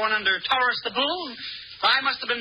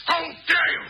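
outraged shout; 4 semitones higher than usual. Acted. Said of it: "The emperor wishes to quench his thirst".

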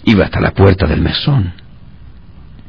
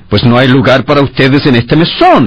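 severe; 6 semitones higher than usual. A narrator's reading. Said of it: "expresión de severidad".

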